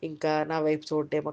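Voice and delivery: low, soft, quick fretting; understated worry, hurried and hushed; anxious inner thought. Acted. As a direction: voice a worried thought under your breath. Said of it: "ఇలాంటి ఆలోచనలు వస్తాయి".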